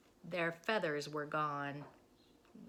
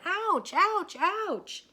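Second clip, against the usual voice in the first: high loud yelps of pain; yelping; 12 semitones higher, 10 dB louder, much slower than usual. A narrator's reading. Minnie yelping while jumping from pecks. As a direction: hop and yelp each ouch.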